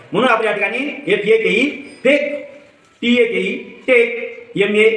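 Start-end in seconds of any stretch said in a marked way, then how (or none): 2.0-2.3 फेक with a clear ay vowel; ay sound. Shown as a demonstration. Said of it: "ए चा उच्चार आपण ए असा". 3.9-4.5 टेक with a clear ay vowel; ay sound. Shown as a demonstration. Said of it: "ए चा उच्चार आपण ए असा".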